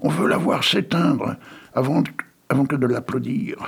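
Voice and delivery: cri de foule, plus aigu; foule qui crie. Acted. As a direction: exiger la mort, cruellement. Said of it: "les voilà qui crient". (la foule crie au directeur, plus aigu)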